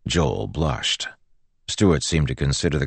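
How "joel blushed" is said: ordinary delivery, nothing marked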